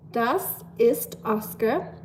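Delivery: slow, careful German phrase; slow German demo. Shown as a demonstration. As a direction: say it slowly for learners. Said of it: "a little German lesson".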